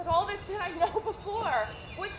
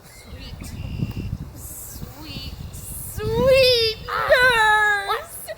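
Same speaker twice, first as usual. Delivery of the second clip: crying plea; 4 semitones higher, 6 dB louder, much slower than usual. Acted. Juliet pleads with nurse.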